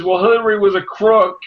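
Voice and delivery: high, laughing mock quote; quote through laughter. Retelling the Jill Stein voter's excuse, laughing and high. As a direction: crack up while quoting her. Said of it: "and then she says".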